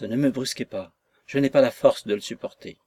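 despairing plea. Acted. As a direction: beg faintly in despair. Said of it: "comme un homme au désespoir".

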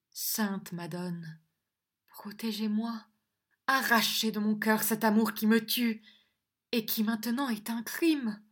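hushed, tearful prayer to the Madonna; tearful murmur. A narrator's reading. Angèle praying to the Madonna, tearful murmur. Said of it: "murmurait d'une voix pleine de larmes".

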